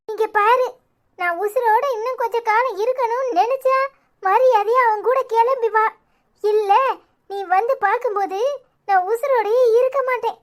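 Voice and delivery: high-pitched, weepy insistence; tearful ultimatum. Acted. Aunt begging niece to come back, tearful and desperate. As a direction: plead and threaten through tears. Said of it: "முதல்ல நீ அழுகைய நிப்பாட்டு".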